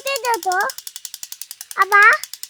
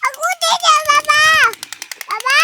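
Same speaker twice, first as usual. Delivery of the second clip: demanding shout; 4 semitones higher, 5 dB louder than usual. Real, not acted. Toddler demanding loudly.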